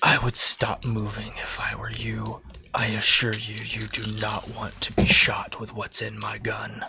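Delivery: hushed, quiet, threatening voice close to the ear. Acting a character pressing a gun to a captive's temple: quietly said in her ear. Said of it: "I'm just gonna quietly say in her ear".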